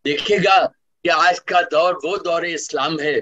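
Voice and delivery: measured, rhythmic poetry recital; stately nazm recitation. Acted. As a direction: declaim each line to the audience. Resumes nazm after anecdote.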